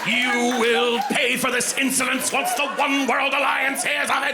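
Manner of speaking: pompous shouting passenger; enraged boss roar. Retold or imitated. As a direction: bellow it like an offended lord.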